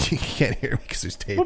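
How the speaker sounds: laughing, breathy, almost voiceless; mouth taped shut. Pretend. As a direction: speak as if tape covers your mouth. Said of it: "story is like".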